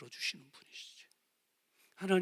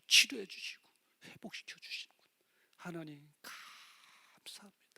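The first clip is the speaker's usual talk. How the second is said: hushed thanks. Acted. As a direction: breathe out the thanks in a whisper. Hushed gratitude after the prayer. (속삭이듯 조용한 감사)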